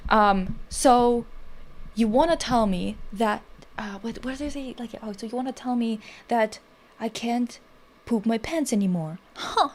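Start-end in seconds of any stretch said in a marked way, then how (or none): 0.7-3.4 put-on Tucker Carlson toddler parody. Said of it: "where he's like". 5.0-9.7 put-on Tucker Carlson toddler parody. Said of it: "where he's like".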